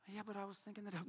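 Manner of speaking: a hint of a whiny listener; mock excuse. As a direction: mumble it like a doubtful churchgoer. Mock listener answers the preacher.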